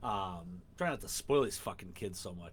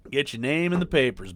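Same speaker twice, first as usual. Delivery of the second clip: mock shout; 4 semitones higher, 11 dB louder than usual. Joking punchline shouted at kids.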